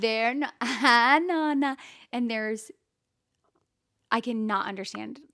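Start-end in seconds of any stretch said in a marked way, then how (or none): 0.6-1.8 mock Italian greeting to Grandma; Italian-accented singsong hello; imitated Italian accent. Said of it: "talking in an Italian accent".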